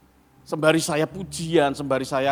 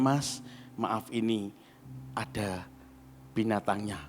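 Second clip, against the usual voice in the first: softer, lower discreet complaint; hushed; 8 semitones lower, 8 dB quieter than usual. Retold or imitated. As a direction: tell him quietly so nobody hears. Quietly telling waiter of roach.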